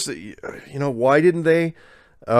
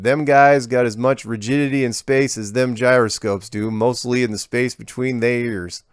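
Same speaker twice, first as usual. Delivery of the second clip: put-on folksy rural accent; 2 semitones higher than usual. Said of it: "he switches".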